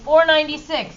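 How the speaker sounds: Four ninety-six called out firmly; said like you mean it. Real, not acted. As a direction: say it so the teacher hears it. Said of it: "See, that worked better".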